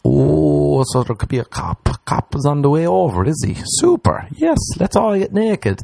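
mock cheerful sarcasm, pitch jumping up; sarcastic. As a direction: play it falsely delighted. Sarcastic imagined remark about cop.

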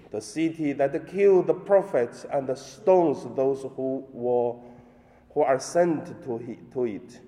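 solemn liturgical reading; Gospel reading. Acted. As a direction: proclaim the Gospel at Mass.

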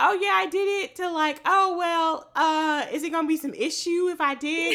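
hammed-up defiant comeback; mock quarrel. Acting out the escalating quarrel.

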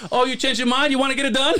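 giggling mock salesman asking again; laughing salesman quote. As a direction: retell the pushy salesman while cracking up. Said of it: "He sees me and he goes".

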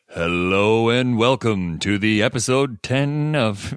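slow, strange low creepy welcome; lightly voiced slow creepy announcer. Shown as a demonstration. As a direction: drop it down into a creepy purr. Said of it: "I could do it lower".

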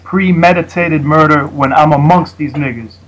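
slow, measured battle-rap line; recited battle bar. Shown as a demonstration. Host testing a bar on the guest, slow and deliberate. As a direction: lay the bar out slowly. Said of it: "that goes like".

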